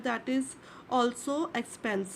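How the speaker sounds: very slow, stretched "also expense"; slow emphasis. Shown as a demonstration. Teacher driving home to students that insurance is an expense, slowly. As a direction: drag it out to make it stick.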